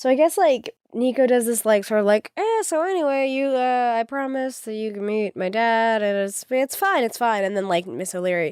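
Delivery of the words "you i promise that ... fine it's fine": acted breezy, unbothered, offhand, oddly nonchalant tone. Describing a story, the speaker acts out Nico's line, imitating Nico's nonchalant tone. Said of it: "says it in like this really like weird nonchalant way".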